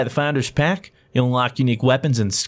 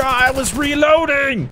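frustrated; 13 semitones higher, slower than usual. Real, not acted. Frustrated in game.

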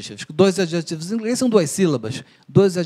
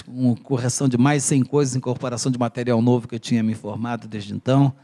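ordinary talk, nothing marked

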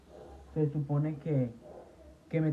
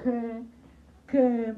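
high, loud indignant what; mock outraged what; 7 semitones higher, 6 dB louder than usual. Real, not acted. Reacting to viewers, a high indignant what. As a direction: snap back in mock shock.

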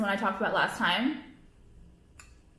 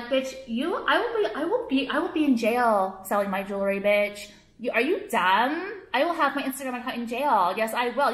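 defiant rant; 2 semitones higher, 3 dB louder than usual. Real, not acted. Defiant rant at those deleting account.

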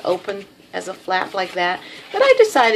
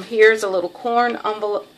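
Texas drawl. Real, not acted. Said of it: "that's my Texas drawl coming out".

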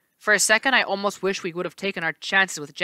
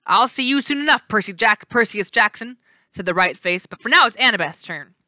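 giddy; 3 semitones higher, 5 dB louder than usual. Acted. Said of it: "He laughed giddily".

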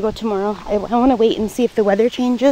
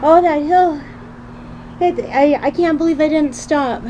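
out of breath; 4 semitones higher than usual. Real, not acted. Resting after the climb.

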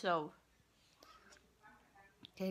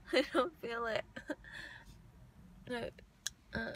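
numb from anesthesia; talking with a numb mouth. Real, not acted. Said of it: "My face feels really numb".

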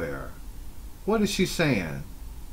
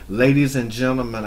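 mock conference speaker; 3 dB louder than usual. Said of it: "conference speaker".

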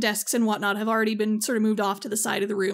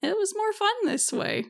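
deadpan shrug; 10 semitones higher than usual. Acted. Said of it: "Karen shrugs".

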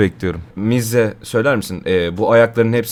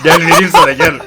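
laughing; 6 semitones higher, 9 dB louder than usual. Pretend. Laughing offering cigarette.

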